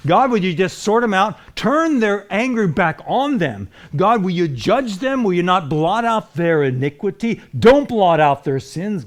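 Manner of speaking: a hint of Nehemiah's pleading; preacher voicing a desperate prayer, mild plea. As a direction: call out to God, lightly voiced.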